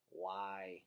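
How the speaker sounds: through a yawn; sleepy yawn on the word. A narrator's reading.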